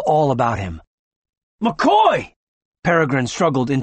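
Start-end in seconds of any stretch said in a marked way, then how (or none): 1.6-2.3 high, loud cry of a name; woman crying out as her man drops; alarmed cry. A narrator's reading. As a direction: call out in fear for him. Woman calls to fallen man.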